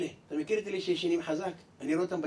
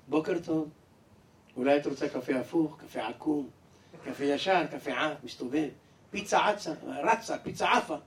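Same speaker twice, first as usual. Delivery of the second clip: sweet talk; 4 semitones lower than usual. Acted. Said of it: "בחיים שלה הוא לא דיבר ככה".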